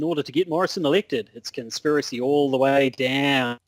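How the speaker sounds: broad Aussie political report; exaggerated Australian correspondent; thick Australian accent. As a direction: lay on the Australian vowels, drawing out the ending. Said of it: "in your thickest Australian accent".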